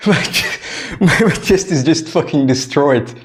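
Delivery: laughing. Real, not acted. Laughing at his sore chest.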